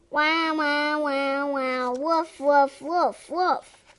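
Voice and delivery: playful run of barks; puppy barking. Acted. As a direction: yap away like a puppy. Dog barking excitedly.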